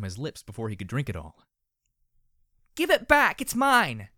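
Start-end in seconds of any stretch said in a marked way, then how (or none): 2.7-3.4 high, loud shriek; filly shrieking over a stolen bottle. Acted. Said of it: "she shrieked". 3.4-4.1 high loud shriek on mine; falling shriek on mine. Acted. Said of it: "she shrieked".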